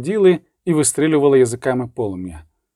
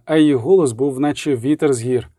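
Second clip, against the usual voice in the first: usual speaking voice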